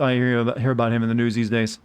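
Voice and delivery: words stretched through a yawn. Real, not acted. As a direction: talk while holding back a yawn. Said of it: "Sorry, had that yawn coming for a while".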